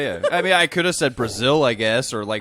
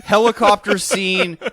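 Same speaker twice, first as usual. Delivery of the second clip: emphatic; 6 semitones higher than usual. Real, not acted. Insisting heatedly on his claim.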